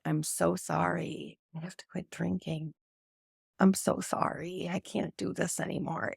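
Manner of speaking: a hint of sobbing through a quiet apology; tearful apology. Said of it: "and cried and said".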